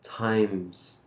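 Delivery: times with its closing S clearly sounded; final S. Shown as a demonstration. Teacher warns don't forget the S, times said carefully. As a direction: finish times on a distinct S. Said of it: "make sure you don't forget the S".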